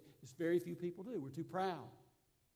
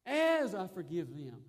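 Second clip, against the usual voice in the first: "As" hit loud, the rest falling away; stress on AS; 4 dB louder than usual. Shown as a demonstration. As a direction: lean hard on the linking word "As". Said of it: "he links them up like that".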